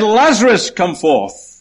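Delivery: high loud name, then falling command; calling out. Acted. Jesus singling out Lazarus in the tomb, calling his name loudly. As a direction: hit the name high, then drop for the order. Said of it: "On the other hand, he said".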